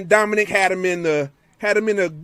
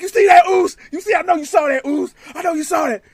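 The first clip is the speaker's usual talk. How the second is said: high mocking taunt, pushed up loud at the start; imitating a smug boss ribbing his cousin; Tribal Chief taunting; 11 semitones higher, 4 dB louder, faster than usual. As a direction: gloat at him like the boss. Tribal Chief gloating to Uso.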